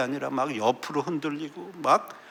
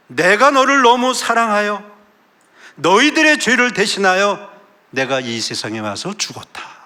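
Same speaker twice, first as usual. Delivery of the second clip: 힘차게 외치듯 설교; 높고 크게 선포하듯; forceful preaching; 7 semitones higher, 7 dB louder than usual. Acted. Preaching God's words. (힘찬 설교 목소리)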